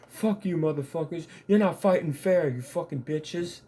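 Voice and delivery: high, heated mock yell at the mic; hammed-up furious gamer rant; mock angry rant. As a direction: mimic an enraged gamer cursing out the team. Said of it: "he was getting really mad".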